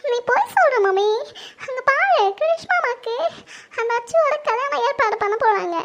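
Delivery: crying accusation with rising pitch; tearful protest. Acted. Daughter accusing her mother of lying, tearful protest. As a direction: protest through sobs. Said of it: "எதுக்கும்மா அவந்திக்கு அழுதுட்டு இருக்கா?".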